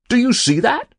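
high, loud, amazed question; astonished cry. A narrator's reading. Castwell to the keeper at another trout, astonished cry. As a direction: exclaim it high in disbelief. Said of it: "cried Mister Castwell".

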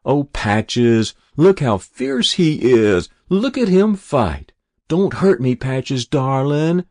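put-on high, loud jeering kids' voices; mocking squeal. A narrator's reading. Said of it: "the mocking voices squealed".

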